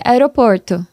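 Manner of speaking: caipira r in "aeroporto" said as "aeɾoporto"; "aeroporto" with the São Paulo interior r, plain pace; "aeroporto" com r caipira do interior; interior São Paulo accent. Retold or imitated. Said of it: "eu tenho muito sotaque".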